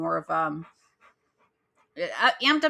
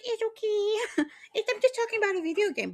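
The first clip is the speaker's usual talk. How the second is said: soothing pet talk. Real, not acted. Podcaster reassuring her therapy dog, high soothing coo. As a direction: coo to a pet through a little laughter.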